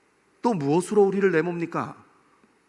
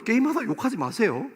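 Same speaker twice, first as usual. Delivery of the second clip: ordinary talk, nothing marked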